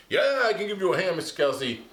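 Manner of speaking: lightly voiced puppet, fast; quick eager helper puppet. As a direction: Tom Tom offers a hand. Tom Tom puppet replies.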